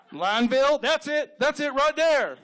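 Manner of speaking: delighted townsperson. Acted. Townsperson settling on Lineville, mock excitement. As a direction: seize on the idea in a put-on excited voice.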